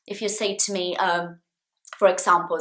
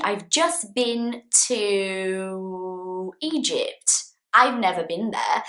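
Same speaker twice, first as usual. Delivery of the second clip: slow model sentence; slower than usual. Shown as a demonstration. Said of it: "If you say to me".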